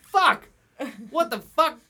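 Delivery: loud, high yell of outrage; shouted outburst. Retold or imitated. Crowd at the bar yelling at the TV. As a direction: bellow it like the whole bar is cursing. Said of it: "everyone's just like".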